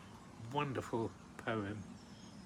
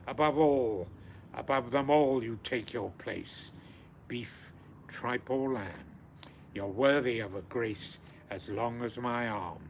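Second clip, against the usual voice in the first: louder, declaiming English version; poem recitation; 4 dB louder than usual. Acted. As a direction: proclaim the haggis's place with gusto.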